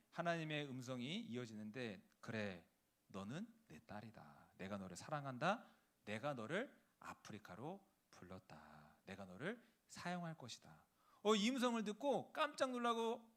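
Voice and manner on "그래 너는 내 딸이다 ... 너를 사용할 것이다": voice of God. Acted. God answering the missionary wife, low and solemn. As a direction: speak as God, low and weighty.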